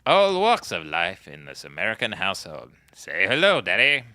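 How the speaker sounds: a hint of cheesy TV presenter; mock announcer. Mock ad about American dinner.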